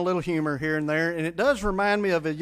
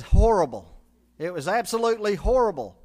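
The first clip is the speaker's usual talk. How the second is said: dismayed son; 6 dB louder than usual. Acted. Son reports disastrous date.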